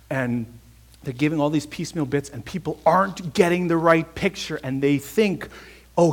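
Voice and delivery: fervent crescendo; rising preaching. Real, not acted. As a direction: preach it up to full force. Preacher building to climax.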